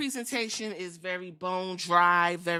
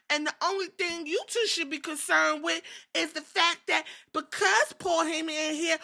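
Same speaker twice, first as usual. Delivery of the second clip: Bron Breaker impression; 7 semitones higher than usual. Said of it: "Braun Breaker said".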